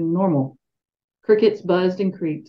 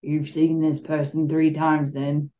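slow, lower gravelly monotone; 3 semitones lower, slower than usual. Shown as a demonstration. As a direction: flatten it into a low gravel. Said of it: "his voice a gravelly monotone".

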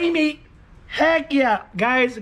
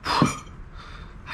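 shaky, breathless; 3 semitones lower than usual. Real, not acted. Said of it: "I'm shaking and I'm sweating".

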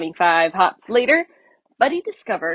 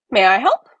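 eager; 2 semitones higher, 7 dB louder than usual. Acted. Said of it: "He asked eagerly".

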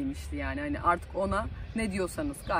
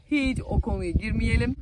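emphatic refusal; 3 semitones higher, 5 dB louder than usual. Pretend. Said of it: "Lise yıllarından bahseder misin?".

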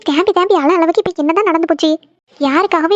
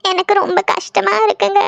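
crying. Acted. Girlfriend crying on phone.

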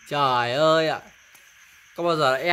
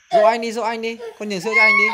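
firm, louder coaxing over the crying; raised urging call; 5 semitones higher, 3 dB louder than usual. Real, not acted. Mother urging toddler over crying brother, raised voice. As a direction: urge the little one loudly to comfort her brother.

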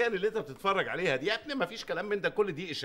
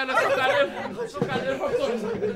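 frantic high shout to shut the door; panicked shout; 7 semitones higher, 4 dB louder than usual. Acted. Boss panicking at the noise, urging the waiter, frantic shout. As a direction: yell in alarm, much higher.

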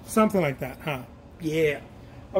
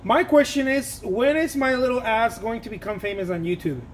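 excited; 4 semitones higher, 3 dB louder than usual. Real, not acted. Excited rhetorical question.

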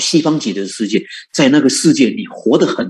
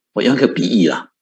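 ordinary talk

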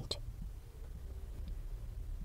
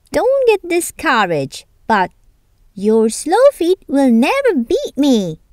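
higher mocking hare voice; taunting hare; 4 semitones higher than usual. Hare taunts the tortoise before the race, mockingly. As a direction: sneer at him playfully. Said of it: "said the hare".

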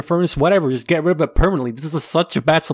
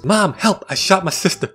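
mild mock yell; 5 semitones higher than usual. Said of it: "she yells".

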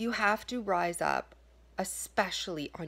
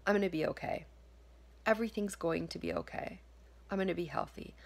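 reassuring self-talk; faster than usual. Shown as a demonstration. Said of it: "just telling yourself for one day".

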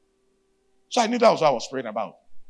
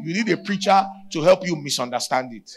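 preaching shout; 2 semitones higher, 4 dB louder than usual. Real, not acted. Shouted punchline.

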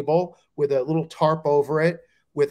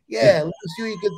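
higher, quick take on a club booker; booker impression; much faster than usual. Comic imitating identical-sounding bookers, quick put-on accent. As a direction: toss it off fast in the booker's accent. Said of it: "Same accent".

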